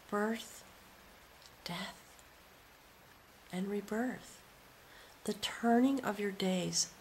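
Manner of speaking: slow, hushed whisper; whispering the meaning of the spiral; reverent whisper. Real, not acted. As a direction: whisper it like a secret blessing.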